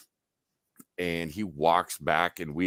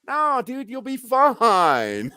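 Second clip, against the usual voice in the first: high, loud, slow drawn-out "fine"; exaggerated, high-pitched reassurance; mock reassurance; 8 dB louder, much slower than usual. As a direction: brush off the fear loudly, stretching the last word. Retold breezy reassurance of passenger.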